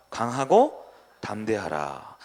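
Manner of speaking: slow, loud divine command; commanding God. Acted. Pastor voicing God's command to Joshua, slow and loud. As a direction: proclaim it slowly like an order from above.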